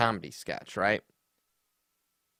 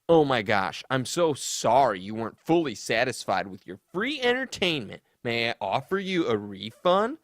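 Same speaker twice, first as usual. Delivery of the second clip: sassy apology. Retold or imitated. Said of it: "Ray responds".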